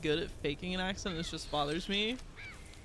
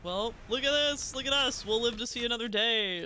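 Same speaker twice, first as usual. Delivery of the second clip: relieved triumph; 5 semitones higher than usual. Real, not acted. Surviving a fight.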